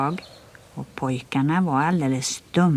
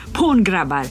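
loud rallying yell to the gang; shouted order; 4 dB louder than usual. Acted. Biggest bully urging his gang on, loud yell. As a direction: bark the boys into the attack. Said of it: "skrek den största".

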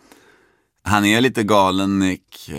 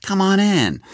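much higher, sudden creepy welcome; smiling Nick Cage; 12 semitones higher, 3 dB louder than usual. Retold or imitated. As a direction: switch to a grinning host. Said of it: "började le och så här". (plötsligt hög, leende och creepy välkomnande)

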